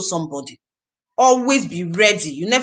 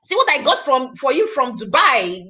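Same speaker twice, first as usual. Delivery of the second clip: proud offer; 3 semitones higher than usual. Pretend. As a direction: show off the gift with pride. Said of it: "You will be proud and hold it and say".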